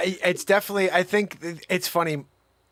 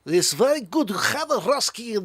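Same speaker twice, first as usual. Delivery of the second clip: hammed-up Russian accent; mock Russian accent; 2 semitones higher than usual. Host greeting a Russian viewer, mock Russian accent. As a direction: put on a playful Russian accent.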